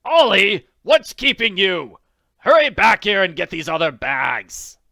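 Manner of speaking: calling out loud and high across the field; shouting. Acted. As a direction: yell for him from a distance, impatient. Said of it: "they heard Ducroy shouting".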